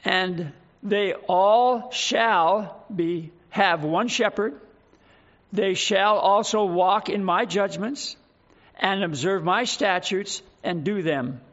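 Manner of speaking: slow, measured Bible reading; deliberate, emphatic pulpit reading; scripture reading. Acted. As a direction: read the verse out slowly with weight. Reads scripture aloud to congregation.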